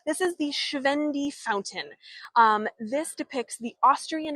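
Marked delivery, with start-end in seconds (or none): 0.1-1.9 "Schwendi" pronounced the German way; higher-pitched, with a German "Schwendi"; German accent. Shown as a demonstration. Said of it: "this is my German accent".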